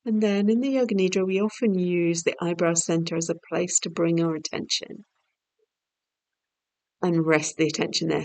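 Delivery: calm, measured yoga nidra voice; unhurried, soothing instruction; guided meditation. Real, not acted. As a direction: gently lead their attention, pausing between phrases. Leads yoga nidra guidance.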